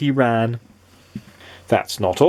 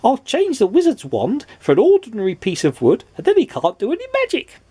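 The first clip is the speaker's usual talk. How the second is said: giggly; 12 semitones higher than usual. A narrator's reading. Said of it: "giggled Mister Mischief".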